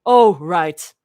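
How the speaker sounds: a loud, low snap; irritated, low retort; snapping. A narrator's reading. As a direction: snap it back, low and sharp. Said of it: "Mira snaps".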